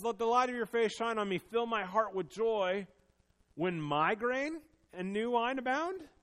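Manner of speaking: loud heartfelt reading of the psalm; impassioned plea. Retold or imitated. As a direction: pray it out with urgency. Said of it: "He says".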